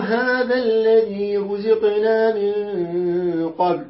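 slow chanted verse with long vowels; Quran recitation. Shown as a demonstration. Teacher reciting the verse again for the class. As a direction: recite it slowly in tajweed style. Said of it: "قالوا".

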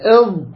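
"إض" with the tongue held inside; careful teacher's model of Arabic ض in "إض"; Dad demo. Shown as a demonstration. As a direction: sustain the ض of "إض" without poking the tongue out. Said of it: "هكذا".

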